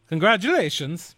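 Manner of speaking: hammed-up Irish brogue congratulating the golfer; quick mock Irish brogue; awful Irish brogue. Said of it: "That was an awful Irish brogue".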